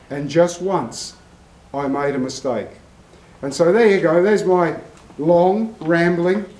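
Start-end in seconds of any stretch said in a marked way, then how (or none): 0.1-2.7 badly faked French confession; terrible French accent. Scarred French trainer admits his one slip, terrible French accent. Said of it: "It's a terrible French accent".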